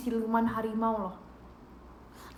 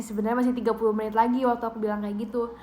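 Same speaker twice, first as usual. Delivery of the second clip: ordinary talk, nothing marked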